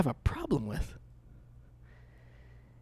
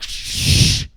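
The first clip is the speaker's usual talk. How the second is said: shushing; 6 dB louder than usual. Retold or imitated. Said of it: "she'd be like".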